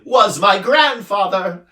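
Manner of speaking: a sobbing little noise-creature; anguished din. A narrator's reading. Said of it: "cried the anguished din".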